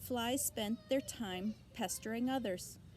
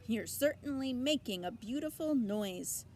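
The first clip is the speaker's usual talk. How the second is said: snapped; 4 semitones higher, 3 dB louder than usual. Acted. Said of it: "snapped the old sheep".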